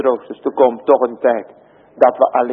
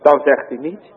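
ordinary delivery

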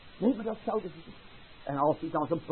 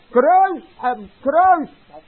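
louder, higher, relentless cries; crowd yelling; 7 semitones higher, 7 dB louder, much slower than usual. Acted. Crowd yelling at Pilate to crucify, louder higher cries. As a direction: chant it louder each time. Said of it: "Dan schreeuwen ze nog harder".

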